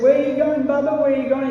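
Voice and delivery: a hint of an eager child calling Baba; little boy Krishna. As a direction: tug at father, asking where he goes. Young Krishna pleading with father.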